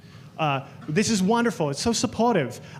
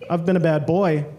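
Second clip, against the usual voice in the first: flirty come-on; 2 semitones lower than usual. Retold or imitated. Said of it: "I turned to the guy ... and I said".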